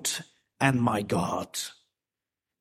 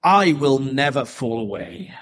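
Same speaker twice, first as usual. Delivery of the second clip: boastful Peter; 5 semitones higher, 5 dB louder than usual. Retold or imitated. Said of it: "Peter answered him".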